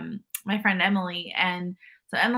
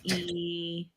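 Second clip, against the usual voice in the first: slow, stretched-out mock tourist Spanish; halting beginner Spanish; 4 dB quieter, much slower than usual. Asking a local for beer, slow halting beginner Spanish. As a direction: grope for each Spanish word, very slowly.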